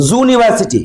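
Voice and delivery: "জুনিভার্সিটি" starting with a J/Z sound. Shown as a demonstration. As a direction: say "জুনিভার্সিটি" with "joo" in place of "you". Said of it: "উচ্চারণটা হয় জ".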